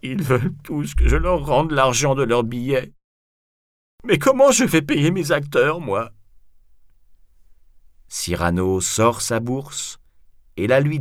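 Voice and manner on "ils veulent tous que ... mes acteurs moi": high, wailing, put-on crying voice; hammed-up weepy lament; tearful. A narrator's reading. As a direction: sob out the complaint in despair. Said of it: "se met à pleurer".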